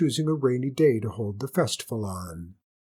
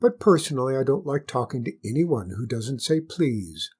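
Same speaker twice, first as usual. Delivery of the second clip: reasonable hare. Acted. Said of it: "said the hare very reasonably".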